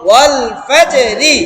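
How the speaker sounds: ওয়াল ফাজে রি drawn out slowly, syllable by syllable. Shown as a demonstration. Teacher modelling the word slowly for students, syllable by syllable. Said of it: "একটা একটা করে বলেন".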